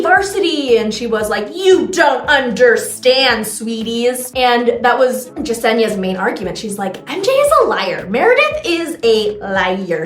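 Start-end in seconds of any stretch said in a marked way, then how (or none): 1.5-4.3 slow, drawn-out mock condescension; condescending. Retelling a reality show contestant's put-down, mock condescending. 7.1-10.0 mock accusation. Recapping a contestant's main argument, mock accusing.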